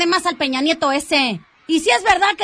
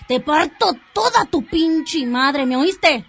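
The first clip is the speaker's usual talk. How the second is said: threatening; slower than usual. Acted. Rosa threatens him.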